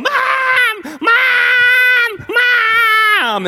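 very high, loud, wailing scream; screaming for Mom. Acted. Boy on bike calls his mom, screaming in panic. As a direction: scream like a terrified child calling for rescue. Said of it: "I start screaming all the way home".

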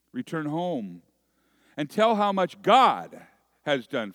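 measured, emphatic scripture reading; solemn public reading with deliberate pauses; Gospel reading. Acted. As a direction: read scripture aloud to a congregation, leaning on key words. Reads the Gospel aloud.

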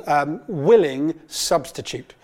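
slow, leaning on "willing"; stress on willing. Shown as a demonstration. Preacher stressing "willing" to the congregation, slow and weighty. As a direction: draw out "willing" slowly so it lands. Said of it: "I first want to emphasize that word willing".

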